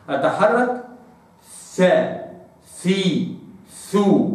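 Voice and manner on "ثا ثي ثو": ثا ثي ثو, each vowel said clearly. Shown as a demonstration. Teacher showing the letter with vowels. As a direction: move the tongue through ثا ثي ثو. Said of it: "هكذا".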